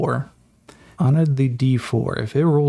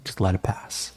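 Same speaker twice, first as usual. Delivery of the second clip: hushed instruction; 3 semitones lower, 5 dB quieter than usual. Acted. Guiding through snake grass.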